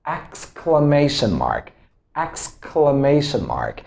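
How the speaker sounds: exclamation in measured syllables, stress on MA; teacher's careful repeat of exclamation mark; careful pronunciation demo. Shown as a demonstration. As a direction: model exclamation mark clearly for learners. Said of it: "know how to pronounce it correctly".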